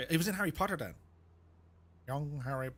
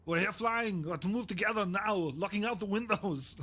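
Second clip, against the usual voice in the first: bad Schwarzenegger; 4 semitones higher than usual. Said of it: "that was really bad".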